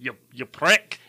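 mock Scottish insult; bad Scottish accent. Answering co-host's query, bad Scottish accent. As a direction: toss it out in clumsy Scottish. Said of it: "you've been working on this accent".

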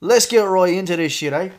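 loud, hammed-up Irish accent; Conor McGregor. Host opening the whiskey segment, mock Irish accent. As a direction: launch in with a mock Irish brogue. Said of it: "That's my impression of him".

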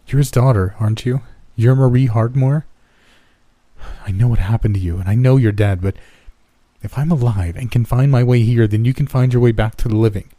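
rising urgency, voice lifted; urgent pleading. Acted. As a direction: plead hard, build the case. Desperate plea to ghost girl.

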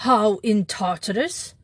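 mild astonished outburst; a touch of a startled cry; cried out. Acted. Astonished thief demands how the priest knew, mildly crying out. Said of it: "cried Flambeau".

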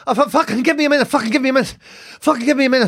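puffed, impatient mock-mum voice; imitating breathless mum. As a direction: beg for a minute, acting winded. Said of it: "she rings me like this".

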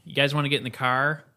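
Iowan accent with a hard R in CAR; quick Iowan twang, nasal and hard-R'd. Shown as a demonstration. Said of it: "That gets nasally. It can get hard".

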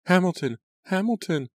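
high, loud horrified calling of a name; shrieking for a drowning cousin; horrified cry. A narrator's reading. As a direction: cry out his name in horror. Watching cousin caught in wheel.

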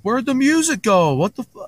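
high-pitched mock outcry; indignant complaint. Party guests when the band suddenly stops, mock indignant. Crowd protests as music stops.

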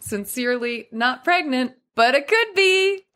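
teasing, coy lilt rising high; playful. Shown as a demonstration. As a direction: wink through it, teasing. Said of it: "I'd love to hear what you would suggest".

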